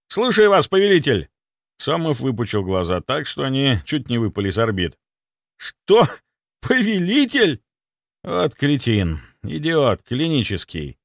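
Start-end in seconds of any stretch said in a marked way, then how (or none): 0.1-1.3 loud, high barked report. A narrator's reading. Security chief reporting to his master, barking loudly. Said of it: "гаркнул". 5.6-7.6 high, drawn-out shocked question; can't believe his ears; stunned disbelief. Acted. Clinic head hearing the title, stunned and high.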